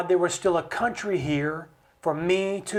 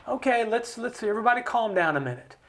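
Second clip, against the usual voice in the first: softer, soothing settle-down; the Senate urging everyone to calm down; 3 semitones higher, 4 dB quieter than usual. Retold or imitated. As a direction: play the Senate cooling the room. Senate calming things down.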